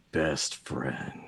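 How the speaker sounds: low raven echoing his owner; Agfa. Acted. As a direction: answer low, as the bird familiar. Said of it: "Agfa goes".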